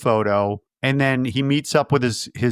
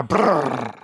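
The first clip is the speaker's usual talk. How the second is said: imitated noise. Imitates riding off, dismissive.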